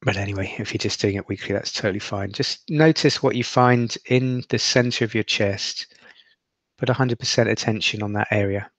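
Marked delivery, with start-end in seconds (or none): 2.3-8.7 guided meditation. Acted.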